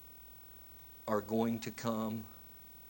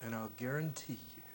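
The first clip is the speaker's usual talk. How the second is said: hushed sermon climax; 11 dB quieter than usual. Acted. Sermon climax dropping to whisper.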